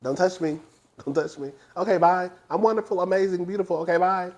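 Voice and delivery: soft, dismissive brush-off; imitating Giselle. Reviewer replays Giselle dismissing Wendy, soft and breezy. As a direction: toss it away, bored and smug. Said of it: "Giselle had her looking crazy".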